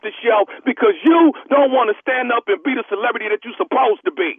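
prank caller as store clerk. Pretend. Prank caller as store clerk pressing the star to come sign, lightly voiced clerk. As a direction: play a pushy store clerk on a prank call. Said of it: "Nephew Tommy".

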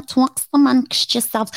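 Linda Richman. Acted. Podcaster repeating the SNL catchphrase, light impression. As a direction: toss off the catchphrase in character. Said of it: "That's Mike Myers, Linda Richmond".

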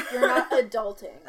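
teasing through laughter; laughing. Real, not acted. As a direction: laugh while you tease.

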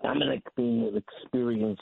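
muffled speakerphone voice; boomy, muffled phone line. Real, not acted. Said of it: "you sound muffled".

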